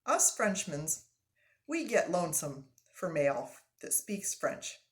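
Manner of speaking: put-on lively French-Canadian accent; animated old Frenchman, thrilled; hearty French-Canadian voice; excited French-Canadian lumberjack. Frenchman continues speaking.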